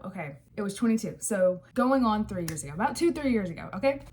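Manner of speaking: talking around a wad of gum; words a bit mushy from chewing gum. Real, not acted. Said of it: "I have gum in my mouth".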